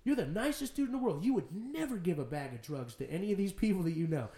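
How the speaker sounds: exasperated retold self-talk; self-scolding. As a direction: reason with yourself in disbelief. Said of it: "That's the conversation I had with myself".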